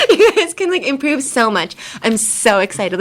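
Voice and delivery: mock excitement with laughter, easing off; over-enthusiastic coach. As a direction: laugh into a coach's gushing pep talk. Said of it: "your coach isn't gonna be like".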